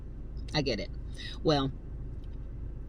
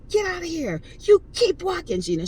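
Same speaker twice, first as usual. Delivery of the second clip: retold yell; 12 semitones higher than usual. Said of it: "She's, like, yelling".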